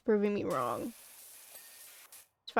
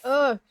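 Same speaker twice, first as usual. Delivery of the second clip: loud frustrated groan; 3 semitones higher, 10 dB louder than usual. Real, not acted. An itchy sneeze coming on.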